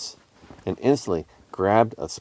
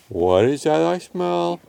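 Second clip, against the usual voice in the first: higher, pressing question; nosy cat asking more firmly; insistent cat; 7 semitones higher than usual. A narrator's reading. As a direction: press for the truth, pitched up. Randy insists on an answer.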